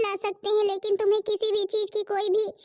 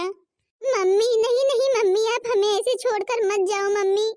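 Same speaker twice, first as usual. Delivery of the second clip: crying plea; 3 dB louder than usual. Acted. Daughter begs dying mother.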